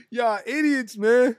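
loud, high laughing yell; laughing outburst. Real, not acted. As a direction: shout through the laughter at chat. Laughing at chat.

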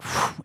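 breathy "phew"; exhale. Retold or imitated. Podcaster recalling his first sight of the kid, exhaling "phew". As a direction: let out a quick puff of air.

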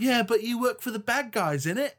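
high-pitched put-on British retort; mock British accent. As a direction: throw it back in a hammed-up British accent. Mimics character's British slang retort.

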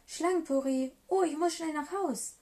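mock alarm, eager to get away; storybook snake taking fright. A narrator's reading. Snake alarmed at being eaten.

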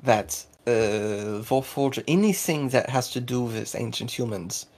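lightly voiced Russo-German character; accented townsperson. Game master as a local explaining the propaganda, in a Russo-German accent.

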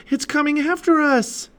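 high-pitched cry of alarm. A narrator's reading. Annie to Jack as the octopus closes in, alarmed. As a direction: warn urgently, voice jumping up high. Girl warns as octopus approaches.

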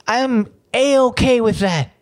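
high, slow sweet A-okay; mock cheery. Local telling the pollster, sugary slow. First take of repeat.

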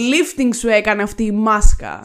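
loud, over-the-top admiration; mock gushing. Friend teases co-host about her face mask, mock gushing. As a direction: gush teasingly, opening on a big wow.

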